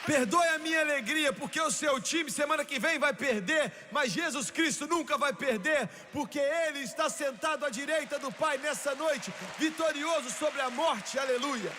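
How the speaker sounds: exultant revival cry; joyful preaching. Real, not acted. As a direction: proclaim the victory with unashamed joy. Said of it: "Me perdoe por estar feliz".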